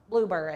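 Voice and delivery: "Blueberry" said in a playfully odd way; oddly said word. Real, not acted. Crafter naming the blueberry pattern, "Blueberry" said oddly. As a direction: give "Blueberry" a quirky, off-kilter pronunciation. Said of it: "don't know why I said it like that".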